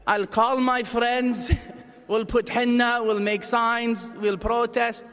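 dramatic Arab mom rallying to protest. Retold or imitated. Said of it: "the Arab mom".

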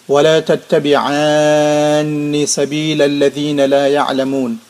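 formal Arabic recitation. Acted.

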